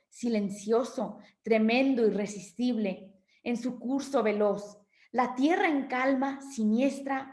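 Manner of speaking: steady recital of a long stanza; recited verse; poem reading. Acted. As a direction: read the storm verse aloud. Reads second stanza aloud.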